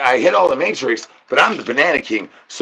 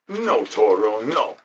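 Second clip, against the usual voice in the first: soft scold; 2 semitones lower, 5 dB quieter, slower than usual. Acted. Scolding the other cat.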